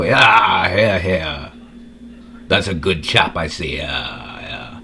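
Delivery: mock posh British MP, fading off; a lightly voiced British MP cheering; British parliament member. Heckling across the House of Commons in a British accent. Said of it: "I'd slam the fucking table and go".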